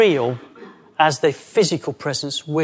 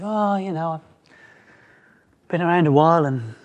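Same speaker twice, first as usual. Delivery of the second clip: disappointed. Retold or imitated. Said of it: "We could be disappointed".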